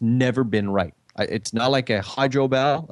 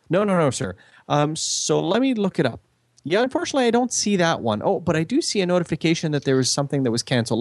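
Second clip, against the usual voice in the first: lightly raised, polite customer-service voice; a hint of a scripted call-centre rep; mimicking phone agent; 6 semitones higher than usual. Retelling his call, he voices the phone company agent politely.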